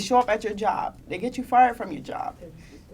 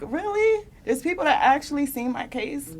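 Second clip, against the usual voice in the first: surprised quote; 5 semitones higher than usual. Retold or imitated. Surprise at seeing petition.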